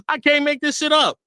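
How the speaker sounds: high, laughing through the words; cracking up mid-sentence; laughing disbelief. Real, not acted. Streamer to chat, laughing in disbelief.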